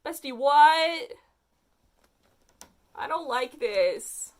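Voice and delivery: slow, drawn-out real dismay; slow disbelief. Real, not acted. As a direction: stretch each word in disbelief. Disturbed by the story.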